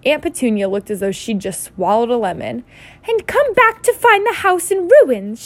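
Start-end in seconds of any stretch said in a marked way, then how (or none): 3.1-5.4 high, loud, drawn-out snarl. A narrator's reading. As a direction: snarl it slowly as an outraged aunt. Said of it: "she snarled".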